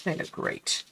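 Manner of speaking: breathy whisper. Real, not acted. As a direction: whisper it to yourself. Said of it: "Don't they look great?".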